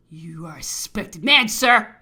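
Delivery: loud, forceful accusation; angry accusation. Acted. Governor calling the officer suspect, loud and angry. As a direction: hit the closing word harder.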